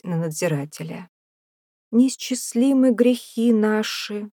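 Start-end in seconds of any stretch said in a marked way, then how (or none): 1.9-4.3 higher, slow, vacant mumble; a feeble old saint murmurs in a daze; dazed simpleton. A narrator's reading. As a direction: murmur like a mind far away. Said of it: "пробормотал он тоном слабоумного".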